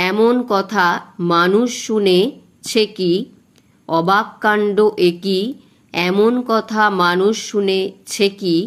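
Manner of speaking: slow, measured verse reading, each foot marked; teacher reading a Bengali rhyme slowly for the class; slow poem recitation. Shown as a demonstration. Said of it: "এইভাবে তোমরা আগে পড়ে নেবে".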